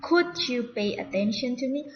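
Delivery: "Could" said as "kud", no L; silent L. Shown as a demonstration. Teacher models the polite question, "Could" without its L. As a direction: model "Could you pay attention to me?" with silent L. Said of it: "Untuk L-nya tuh tak, tidak dibaca".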